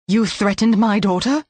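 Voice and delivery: mild roar of a furious father; understated angry roar. Acted. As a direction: let the anger rise at the lawyer. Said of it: "he roared".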